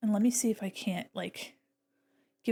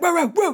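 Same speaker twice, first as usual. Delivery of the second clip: 1 imitated dog bark; 6 semitones higher, 9 dB louder than usual. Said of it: "he's like".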